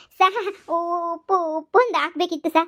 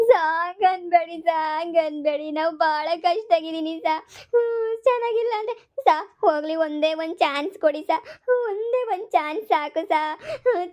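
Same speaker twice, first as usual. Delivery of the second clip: tearful pleading; 2 semitones higher, slower than usual. Acted. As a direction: beg through put-on sobs. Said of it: "drama ಮಾಡ್ಕೊಂಡು ಅಳೋದು". (ಅಳುತ್ತಾ ಬೇಡಿಕೊಳ್ಳುವ ಧ್ವನಿ)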